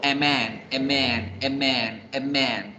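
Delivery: "amen" como una sola palabra, la vocal ligada a la m; a man fluido. Shown as a demonstration. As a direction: say "amen" smoothly, no break before the m. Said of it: "Todo va fluido". ("amen" fluido, sin pausa entre a y men)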